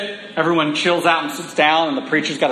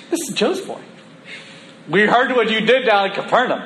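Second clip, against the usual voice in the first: entitled locals; 5 semitones higher than usual. Acted. Voicing entitled hometown crowd.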